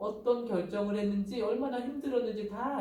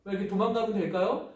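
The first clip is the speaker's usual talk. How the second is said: ordinary talk, nothing marked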